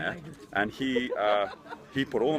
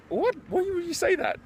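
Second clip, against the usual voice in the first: much higher, a bit louder, wounded; shocked protest; 4 dB louder than usual. Retold or imitated. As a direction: yelp it like you were just insulted. Sister calls him terrible CEO.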